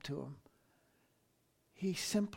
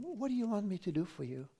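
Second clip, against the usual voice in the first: softly voiced, gently gracious question; understated, gracious quote of an offer to help; mild gracious offer; 3 semitones higher, 5 dB quieter than usual. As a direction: ask softly, with a touch of graciousness. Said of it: "Very gracious".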